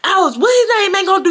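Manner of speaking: quick, high mock yell; imitated screaming. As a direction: imitate a boy hollering a taunt. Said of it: "He starts screaming".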